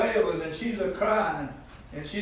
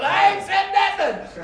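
indignant shout; 12 semitones higher, slower than usual. Retold or imitated. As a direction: shout back in mock innocence. Preacher protests to niece.

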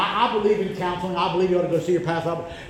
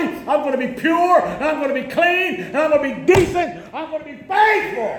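each promise higher until the last is shouted; building vow; 6 semitones higher than usual. Acted. Preacher voicing a believer's vow, building to a shout.

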